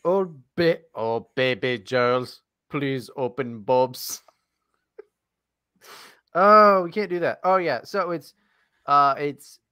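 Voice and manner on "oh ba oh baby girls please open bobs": slow, lightly put-on creep voice; lower, drawn-out mock plea; mock online creep. Host parodies an online creep's message, slow and low. Mocking a robot-like online account.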